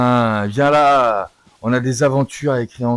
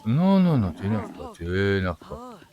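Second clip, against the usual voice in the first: soothing; 2 semitones lower, 3 dB quieter than usual. Acted. Calming an agitated horse.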